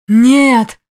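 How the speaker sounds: an imp howling in grief; yelling. A narrator's reading. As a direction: scream the refusal at full force. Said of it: "заорал бес".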